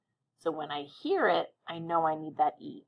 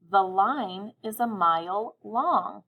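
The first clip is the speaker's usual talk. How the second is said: even slower, every word clear; slow dictation; slower than usual. Shown as a demonstration. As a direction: say it slowly once more for listening. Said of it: "I'll say it again, listening carefully".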